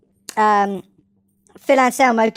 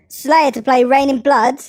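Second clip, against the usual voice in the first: news read. Shown as a demonstration. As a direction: announce it like a TV anchor. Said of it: "Nine nine nine style".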